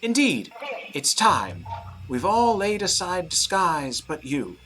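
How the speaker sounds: loud, high proclamation; booming declaration. A narrator's reading. Masked host declaring everyone unmasked but one, loud high boom. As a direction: proclaim it to the whole hall.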